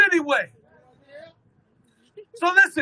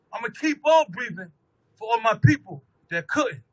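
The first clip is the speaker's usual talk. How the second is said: spoken word poem. Acted. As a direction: recite it as a solemn spoken word piece.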